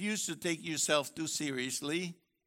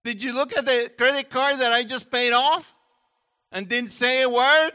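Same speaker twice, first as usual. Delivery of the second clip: indignant husband; 7 semitones higher, 8 dB louder than usual. Pretend. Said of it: "he said".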